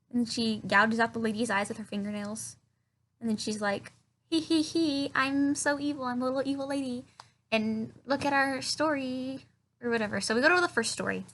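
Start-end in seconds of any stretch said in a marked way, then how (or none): 4.3-9.5 lightly mocked evil little demon lady; mock a hammy little villainess, slightly raised pitch; Morella. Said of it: "this evil little demon lady named Morella".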